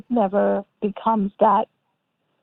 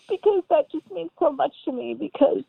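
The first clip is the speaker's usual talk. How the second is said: real happy tears, higher-pitched voice; crying and laughing a little, deeply touched; choked with emotion, pitch lifted; tearful; 6 semitones higher than usual. Real, not acted. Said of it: "I'm literally crying".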